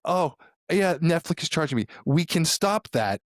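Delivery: high, easy "we can stop that"; breezy mom. Retold or imitated. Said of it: "when she says shit like".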